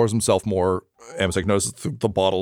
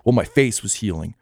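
earnest, higher-pitched speech in character; impassioned idealist; 4 semitones higher than usual. Acted. Pleading with a friend to share a dream, impassioned. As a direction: make a heartfelt case, lilting upward.

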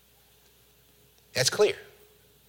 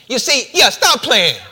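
familiar teasing; 9 semitones higher, 7 dB louder than usual. Acted. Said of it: "said it in a tone ... sounded like Jesus".

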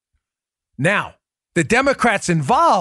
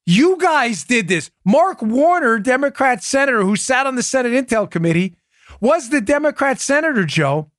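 indignant; 6 semitones higher than usual. Real, not acted. Outraged rant against Warner.

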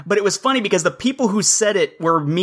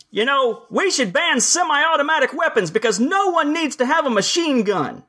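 mock uninformed speaker; 8 semitones higher than usual. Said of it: "I hear somebody say".

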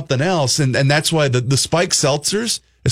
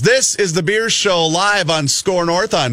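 upbeat announcer read, signing off; host announcing show name before break; radio outro; 3 semitones higher than usual. Acted. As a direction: sell the station like a DJ.

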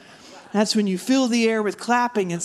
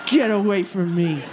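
mock alarm; 2 semitones higher, slower than usual. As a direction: play being spooked by your own puppet. Comic fends off the puppet.

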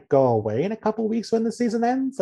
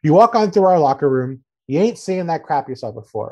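punchy mock Southern accent; Joe Judge; 4 dB louder than usual. Coach lecturing about his locker room, Southern accent. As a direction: lay on a light Southern coach's twang. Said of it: "he adopted this weird Southern accent".

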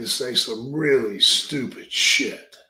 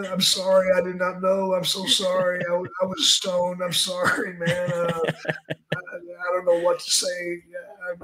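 higher, stammering nervous plea; panicked apology; 6 semitones higher than usual. Retold or imitated. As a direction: beg not to be fired, flustered and half laughing. Begging Vince not to fire.

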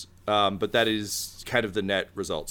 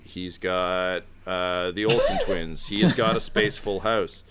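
ordinary delivery

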